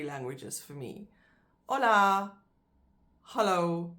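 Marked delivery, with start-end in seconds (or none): 1.7-2.3 Hola loud, H silent, open Spanish o. Shown as a demonstration. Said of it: "you don't pronounce the H". 3.2-3.9 Hello with a clear H at the start; English hello with H. Shown as a demonstration. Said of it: "with the other two, you do".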